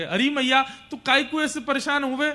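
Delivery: high, loud, insistent reassurance; pleading child. Acted. Krishna clings to his weeping mother, pleading that he will return.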